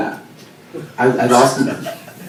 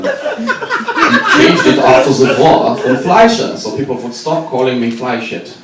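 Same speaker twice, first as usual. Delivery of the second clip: granddad's voice; 4 semitones higher, 5 dB louder, slower than usual. Retold or imitated. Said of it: "and he said".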